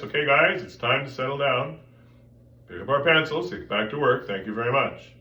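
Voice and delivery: firm classroom call without anger; projected teacher voice. Shown as a demonstration. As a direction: project to the room without yelling. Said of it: "I'm just doing this".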